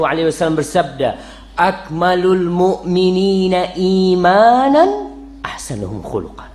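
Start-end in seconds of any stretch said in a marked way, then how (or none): 1.5-6.5 slow, drawn-out chanted Arabic recitation; hadith recitation. Acted. Preacher intoning a hadith to the congregation, slow recitation. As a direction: intone the prophet's words slowly.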